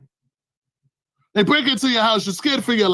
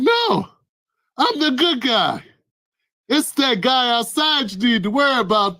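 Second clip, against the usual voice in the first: mock friendly invader; 3 semitones higher, slower than usual.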